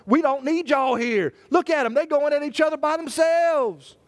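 lightly voiced, delighted devil; a hint of a gloating Satan; gleeful Satan. Satan gloating over couples fighting, lightly gleeful. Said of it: "Satan looking at us and saying".

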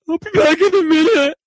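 high, strained, choked-up mock crying; imitating tearful voice. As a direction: squeak it out like he's about to break down. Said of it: "and left crying".

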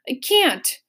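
hammed-up overfull count; stuffed sigh. A narrator's reading. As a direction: sigh it out, too full. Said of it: "sighed the Count".

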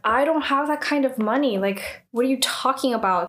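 retold frustrated protest, starting high; mildly exasperated, imitating someone in disbelief. Yoonhee balks at the settlement demand, mildly frustrated. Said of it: "But she's frustrated".

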